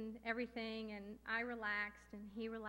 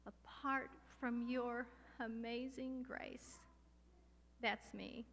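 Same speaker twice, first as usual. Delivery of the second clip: retold prayer; slower than usual. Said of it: "And I said".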